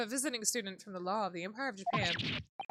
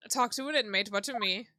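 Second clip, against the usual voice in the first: put-on Scottish accent; 3 dB louder than usual. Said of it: "What is this accent?".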